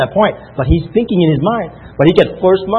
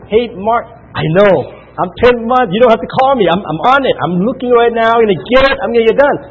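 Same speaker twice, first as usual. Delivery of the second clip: eager reply; 5 semitones higher than usual. Retold or imitated. Mark, eager, calling about ten months.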